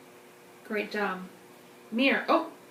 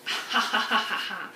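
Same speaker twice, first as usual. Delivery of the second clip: evil scientist laugh; 3 semitones lower than usual. Acted. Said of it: "your best evil scientist laugh".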